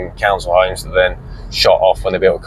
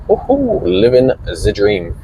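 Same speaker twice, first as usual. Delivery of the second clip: sarcastic; slower than usual. Real, not acted. Mock cheer about the Spar.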